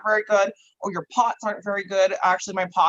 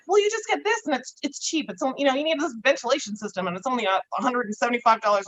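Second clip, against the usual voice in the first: mocking know-it-alls; 3 semitones higher than usual. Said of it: "They'll be like".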